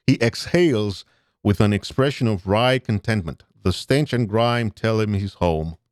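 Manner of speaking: steady narrator read; story narration. A narrator's reading. Streamer reads Jake's walk home, narrator voice. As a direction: paint the street for the viewers.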